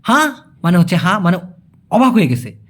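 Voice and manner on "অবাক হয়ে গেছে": whisper. Real, not acted. Teacher's aside.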